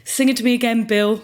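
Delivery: put-on Essex accent. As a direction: put on a hint of Essex, coaxing Bill. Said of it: "I don't know why she's an Essex accent".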